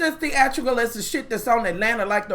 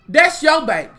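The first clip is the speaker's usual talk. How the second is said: louder, hammering the point home; emphatic shout; 4 dB louder than usual. Real, not acted. Ranting at a reality star about her neglected child, shouting. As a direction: shout it back at her, fed up.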